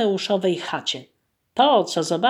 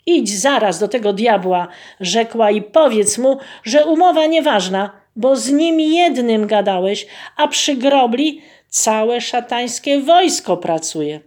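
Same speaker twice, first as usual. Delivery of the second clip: firm orders; 3 semitones higher, 4 dB louder than usual. Acted. Wife commanding husband.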